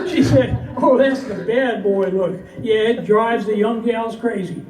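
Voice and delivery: rhythmic, rhyming storytelling for a live crowd; cowboy poem recitation. Acted. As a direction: recite it as a comic cowboy poem, pausing for the laughs.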